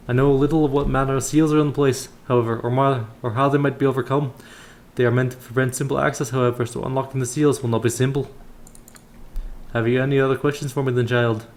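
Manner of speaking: put-on voice of a temple elder; measured, formal elder's counsel; kindly elder priest. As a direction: instruct the young adventurer as a solemn old brother. Voices Brother Paul, the elder.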